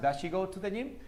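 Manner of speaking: "Does she go to the gym?" run together with no gaps; linked pronunciation. Shown as a demonstration. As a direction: link "Does she" into "da-shee" and keep going. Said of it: "para que aprendan estos enlaces".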